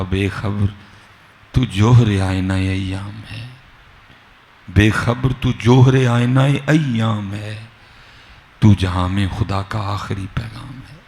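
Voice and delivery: slow, drawn-out declamation of verse; stately, stretched-out poetic delivery; poetry recitation. Acted. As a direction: recite the couplet with measured weight.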